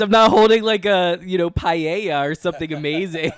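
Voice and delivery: loud, high indignant protest; mock outrage. Real, not acted. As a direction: exclaim it like you're offended. Mock outraged defense of cookbook.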